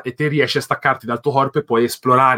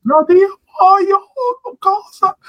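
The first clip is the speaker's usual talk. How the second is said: much higher, loud shocked outburst; startled cry; 4 dB louder, much slower than usual. Real, not acted. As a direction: yelp in real surprise. Startled right after a sneeze.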